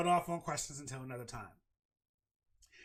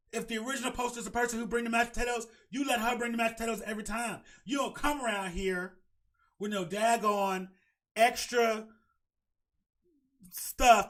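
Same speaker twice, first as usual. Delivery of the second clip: higher, shouting rant; 5 semitones higher than usual. Real, not acted. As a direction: yell the rule down at her. Ranting at the girlfriend.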